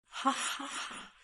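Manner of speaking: soft, slow read-out laugh; high, hushed, spaced-out ha-ha-ha; mock laugh. A narrator's reading. Long Zhanwu laughs at Long Fei, a soft mock laugh. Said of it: "Long Zhanwu laughed loudly".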